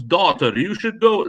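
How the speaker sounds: mock Dracula voice giving an order; Dracula accent. Movie fan mocks the Red Skull with a mild Dracula accent. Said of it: "I'm doing Dracula".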